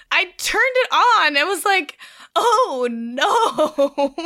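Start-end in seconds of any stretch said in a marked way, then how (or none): 2.3-4.1 a touch of laughing, hammed-up dread; mock dismay. Co-host retells hearing the surprise guest, mock dismay.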